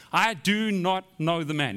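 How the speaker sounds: slow, firm denial under oath; flat-out denial. Acted. Peter denying Jesus to bystanders, flat-out denial. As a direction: deny it flatly, word by word. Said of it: "he's just in flat out denial".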